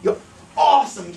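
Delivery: high, hammed-up delight; excited demo. Shown as a demonstration. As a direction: burst out with put-on enthusiasm. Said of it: "Gotta get excited".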